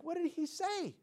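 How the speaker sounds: high-pitched, eager asking; curious question. Retold or imitated. Preacher asking the other guy about Josh, high curious question. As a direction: ask it high, keen to know. Retold puzzled question to classmate.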